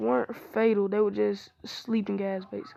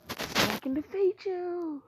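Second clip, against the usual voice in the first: slow, higher put-on villain voice; disguised intruder voice; 8 semitones higher, slower than usual. Hinata threatening Karin in disguise, slow put-on voice. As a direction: draw out the threat in a raised, disguised voice. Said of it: "tried to make her voice deeper".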